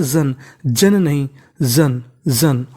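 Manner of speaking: slow, low, drawn-out जन; drawn-out repetition. Shown as a demonstration. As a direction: stretch जन slowly and deeply for the class. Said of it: "क्या पढ़ते हैं?". (धीमा, खिंचा हुआ जन)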